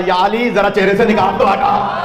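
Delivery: slow ringing call. Retold or imitated. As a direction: call out slowly to Ali across the gathering. The Prophet calls out to Ali.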